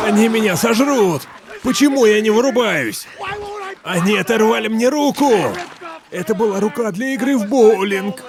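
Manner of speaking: high, frantic cries of terror; panicked yelling. Acted. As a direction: scream it like you're being eaten. Attacked by zombies, yelling. (панические крики в ужасе)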